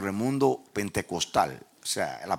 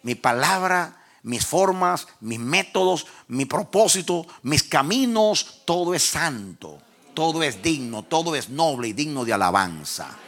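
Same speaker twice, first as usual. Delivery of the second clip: majestic list, raised and loud, then settling; voice of God; 5 semitones higher, 5 dB louder, slower than usual. Retold or imitated. God proclaiming his ways holy to the preacher, raised declamation. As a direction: declaim each item as God, climbing to a peak. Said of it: "el Dios de la dignidad".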